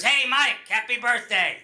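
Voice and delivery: imitated dad's brisk New York accent; New York accent, handing the phone straight over; old-school New York accent. Dad answering his son's birthday call, New York accent. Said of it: "He goes".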